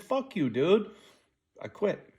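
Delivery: mock shout quitting the job; angry retort. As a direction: spit it out as you quit. Quitting on the boss in anger.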